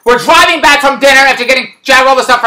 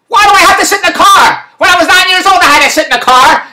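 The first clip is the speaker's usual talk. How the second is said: high-pitched exasperated complaint; re-enacted indignant objection; indignant protest; 5 semitones higher than usual. Retold protest at being told.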